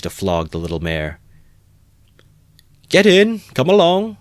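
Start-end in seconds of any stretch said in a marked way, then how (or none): 2.9-4.2 very high, loud mocking call; crowd laughing. Crowd mocking Mikulka's invitation, loud jeering. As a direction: jeer it out gleefully. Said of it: "the crowd laughed".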